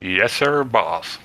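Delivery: put-on American Southern accent. Shown as a demonstration. Brit repeating it on request, Southern accent. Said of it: "He sounded very American right there".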